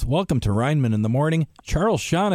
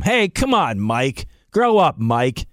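mock scolding; slower than usual. Scolding a listener jokingly.

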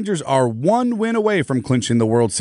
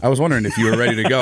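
laughing; much faster than usual. Real, not acted. Teasing co-host caught eating.

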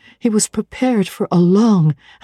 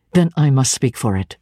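deep relentless voice; 5 semitones lower than usual. Acted. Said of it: "the deep, relentless voice".

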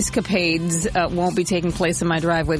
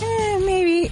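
high, drawn-out noncommittal waver; retold shrug in a raised voice; retold doubt; 12 semitones higher than usual. Host reacting to a forecast, doubtful. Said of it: "I'm like".

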